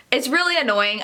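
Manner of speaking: ordinary talk, nothing marked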